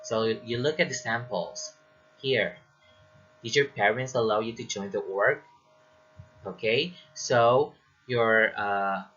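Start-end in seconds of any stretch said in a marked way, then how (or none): 3.4-5.4 yes-no question lifting on "org"; rising intonation. Shown as a demonstration. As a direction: let the pitch climb at the end on "org". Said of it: "intonation should rise at the end".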